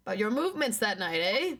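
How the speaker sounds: put-on light Canadian accent with rising "eh"; half-hearted Canadian accent. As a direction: tack on a Canadian "eh". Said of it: "forgot he's Canadian".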